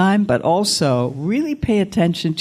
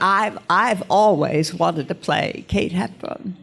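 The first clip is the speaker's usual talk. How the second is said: Katharine Hepburn impression; 3 semitones higher than usual. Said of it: "amazing impression of Katharine Hepburn".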